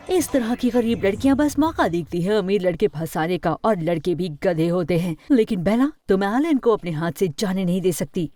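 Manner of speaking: understated scolding anger; angry mother. Acted. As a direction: lecture the daughter with restrained anger. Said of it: "तो वो गुस्सा हुई". (हल्के गुस्से में डाँटती माँ)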